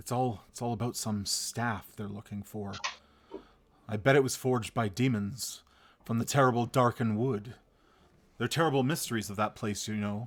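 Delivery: dropped, hushed, low storyteller voice. Voicing an innkeeper character as his voice lowers: lowered voice. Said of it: "his voice lowers".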